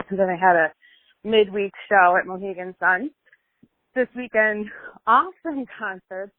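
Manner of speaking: breathless, walking while talking; winded between phrases; out of breath. Real, not acted. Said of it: "I sound so out of breath".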